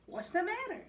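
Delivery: startled, high and loud; a sudden worried shout; alarmed question. Acted. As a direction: call down the stairs in alarm. Narrator woke to a clatter.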